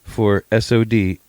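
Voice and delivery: mock receptionist text. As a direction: read the booking text like a syrupy receptionist.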